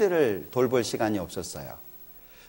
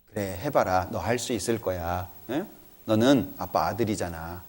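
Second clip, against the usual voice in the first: gentle encouragement; 7 semitones lower, 6 dB quieter than usual. Retold or imitated. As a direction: lower and softer, tender fatherly reassurance. Father encouraging son, retold. (아들을 다독이는 낮고 부드러운 목소리)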